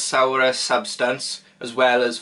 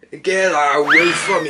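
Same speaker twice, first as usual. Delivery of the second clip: loud recoil; 3 semitones higher, 5 dB louder than usual. Real, not acted. Recoiling from sour drink.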